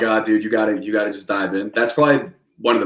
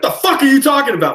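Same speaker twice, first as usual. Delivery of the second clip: mock high irritated woman's voice, much higher; annoyed woman; 5 dB louder than usual. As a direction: play her snapping at a stupid question. She snaps on phone, retold.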